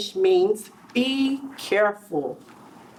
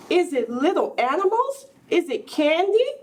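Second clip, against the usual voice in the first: put-on higher, eager child guesses; excited guessing; 5 semitones higher than usual.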